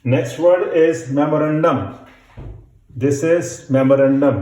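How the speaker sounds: memorandum dictated slowly; slow dictation. Shown as a demonstration. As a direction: read memorandum slowly for the class. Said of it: "dictation teacher".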